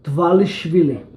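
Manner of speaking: "Dvalishvili" said slowly for a learner; slow, careful "Dvalishvili"; name pronunciation demo. Shown as a demonstration. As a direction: show how "Dvalishvili" is pronounced, drawn out. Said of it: "How do you pronounce your last name".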